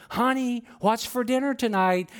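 right in her ear. Acted. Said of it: "speak directly in her ear".

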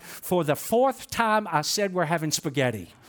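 the fed-up wife sets him straight; resolute wife. Acted. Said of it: "resolutely replied".

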